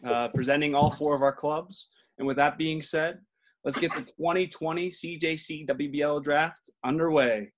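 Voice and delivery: formal podium announcer read; draft announcer. Acted. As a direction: announce it like a league commissioner. Opens draft like commissioner.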